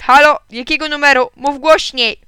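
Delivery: high, loud demand to speak up; shout. A narrator's reading. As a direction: yell as if hard of hearing. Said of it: "krzyknął Alcest". (głośny, wysoki krzyk do telefonu)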